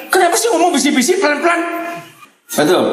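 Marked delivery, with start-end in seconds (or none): 0.1-1.6 high-pitched, fast mock complaint; keluarga ribut. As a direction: imitate a noisy family's shrill protest. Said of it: "Yang keluarga ribut selalu bilang". (menirukan protes keluarga ribut, nada tinggi)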